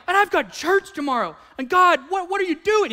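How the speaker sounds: rising high, frantic pleading; retold panic about church tomorrow; panicked. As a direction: freak out at God, voice climbing. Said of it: "And I was like".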